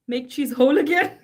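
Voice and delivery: loud rally-style shout; mock rally shout. Making cheese protest signs, loud mock rally shout. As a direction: belt it out like a protester.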